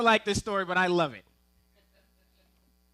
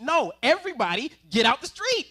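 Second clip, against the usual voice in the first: put-on loud, higher yell at kids; calling out to kids; 4 semitones higher, 7 dB louder than usual. Dad yelling to all kids in the street to get out.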